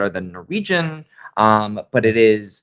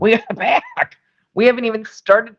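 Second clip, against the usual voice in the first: raspy voice; 11 semitones higher than usual. Real, not acted. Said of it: "I sound like a smoker".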